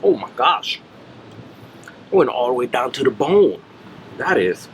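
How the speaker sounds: talking with a mouthful of chicken; eating chicken. Real, not acted. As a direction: say it while chewing a bite. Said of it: "Let me take a bite".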